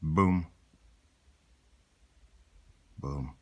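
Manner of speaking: low booms dying away, long pauses between; fading booms. Acted. Imitated blasts closing the story.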